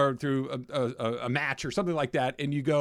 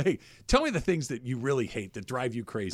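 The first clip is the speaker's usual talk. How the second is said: friendly; 4 semitones lower, 3 dB quieter than usual. Shown as a demonstration. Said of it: "But you go".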